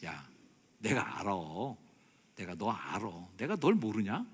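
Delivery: gently accepting, knowing reassurance; Jesus. Acted. Preacher voices the Lord accepting a sinner, tender understanding. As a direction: soothe without any reproach. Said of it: "그렇게 도닥여 주시는".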